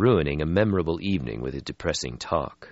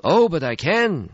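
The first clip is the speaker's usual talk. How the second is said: forceful; 12 semitones higher, 6 dB louder than usual. Acted. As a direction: insist on it with force. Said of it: "Stretsky said forcefully".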